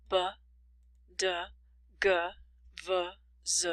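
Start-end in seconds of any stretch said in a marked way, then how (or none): 0.1-0.3 "b" as an isolated voiced sound; voiced consonant. Shown as a demonstration. Teacher lists voiced sounds for learners, voiced "b". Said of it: "The voiced sounds are". 2.9-3.7 "v, z" as separate buzzing sounds; voiced consonants. Shown as a demonstration. Teacher lists voiced sounds for learners, buzzing "v, z". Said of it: "The voiced sounds are".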